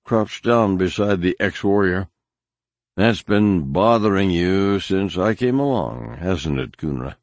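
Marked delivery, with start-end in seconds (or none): 2.9-7.2 grinning taunt. Acted. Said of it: "he said, grinning".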